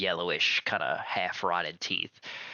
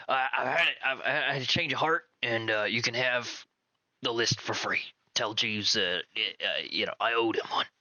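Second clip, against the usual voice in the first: flustered Rock; 3 semitones higher than usual. Acted. Game master voices Rock replying.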